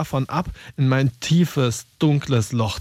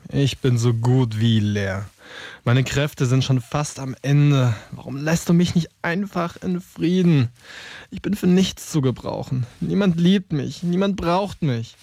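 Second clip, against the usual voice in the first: mild self-pity. Acted. Depressed pen laments being empty.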